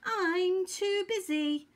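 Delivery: high, slow bee voice; Honeybee. A narrator's reading. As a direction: hum it out high as a busy bee. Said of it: "hummed Honeybee".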